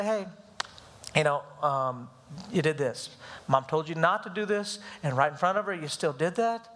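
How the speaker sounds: low, measured retold talking-to, with pauses; calm dad laying out the offence, without heat; calm fatherly reproof. Dad tells his crying son what he did, calm. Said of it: "I'm very calm about it".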